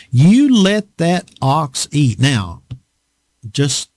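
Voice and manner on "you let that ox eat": slow, firm command stressing You; God's command. Acted. God commanding the farmer, slow and firm. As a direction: lay down the law, slow. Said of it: "God is saying".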